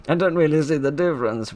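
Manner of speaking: giggling the line back out; laughing repeat. Real, not acted. Friend laughing as she repeats the line, giggling.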